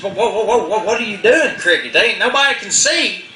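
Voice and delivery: high, hushed protesting voice; alarmed Possum. Acted. Possum protesting to Cricket, high and alarmed. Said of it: "and he says".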